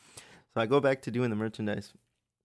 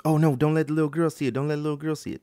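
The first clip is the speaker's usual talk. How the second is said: higher, louder acted mom's plea; urgent plea; 5 semitones higher, 3 dB louder, faster than usual. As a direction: plead urgently as the worried mother. Mom hurriedly hushes in retold scene.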